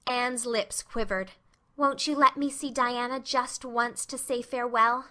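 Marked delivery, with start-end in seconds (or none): 1.8-5.0 implored. Acted. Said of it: "she implored".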